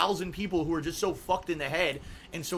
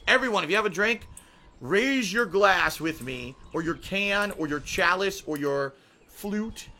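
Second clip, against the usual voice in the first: wedding toast speech. Pretend. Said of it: "Here we go".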